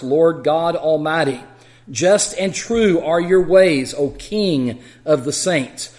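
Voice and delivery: solemn, measured Bible reading; scripture reading. Acted. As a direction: read it like scripture to a class. Reads Revelation 15 aloud.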